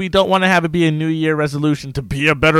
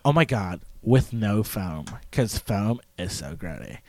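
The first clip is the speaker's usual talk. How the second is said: SoCal barista-order voice; 5 semitones lower, 5 dB quieter than usual. Pretend. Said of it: "That person I want to die".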